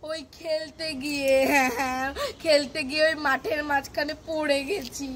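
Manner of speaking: tearful halting explanation; hammed-up whimpering child; fake crying. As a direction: sob between phrases as if hurt. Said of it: "কান্না করছিস কেন?".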